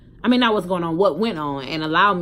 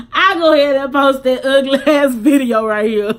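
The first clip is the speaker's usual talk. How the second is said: real tears, loud and breaking; crying while talking; 7 semitones higher, 12 dB louder than usual. Real, not acted. Introducing the video to viewers, really crying. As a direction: push the words through a real cry. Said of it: "She crying".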